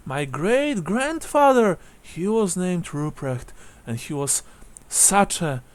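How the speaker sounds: lightly voiced odd old lady; a hint of a peculiar elderly widow; rather strange old woman. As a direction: reminisce haltingly, a touch strangely. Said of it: "she says, rather strangely".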